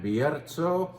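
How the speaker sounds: Bierzo with a trilled r, slowly; Spanish Bierzo. Shown as a demonstration. Wine host trilling the Spanish place name. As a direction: roll the r in Bierzo. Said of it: "require my R trilling".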